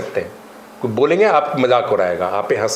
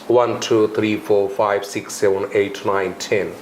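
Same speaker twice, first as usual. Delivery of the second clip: lower-pitched counting in an American accent; American accent demo; 3 semitones lower, slower than usual. Shown as a demonstration. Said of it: "कैसे बोलना है उसको American accent में". (American accent में गिनती)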